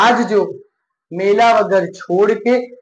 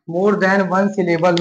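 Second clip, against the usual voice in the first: slow dictation; much slower than usual. Shown as a demonstration. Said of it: "teacher repeats heading slowly".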